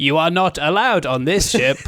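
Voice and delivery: flat mock robot voice. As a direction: say it like a cheap robot. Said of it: "guy doing a robot voice".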